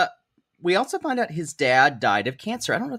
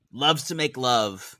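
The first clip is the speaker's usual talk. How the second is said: slow emphatic; slower than usual. Real, not acted. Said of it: "She likes to make love".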